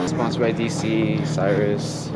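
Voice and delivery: mock bragging. Bragging skater pose, slow low voice.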